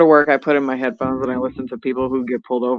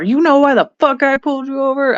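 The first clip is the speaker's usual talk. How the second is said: higher-pitched mock confrontation; imitated irate trooper; 10 semitones higher than usual. Trooper confronting a pulled-over driver, mock irate. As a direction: demand it like an irate traffic cop.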